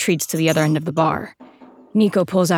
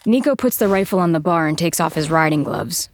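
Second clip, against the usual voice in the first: ordinary delivery, nothing marked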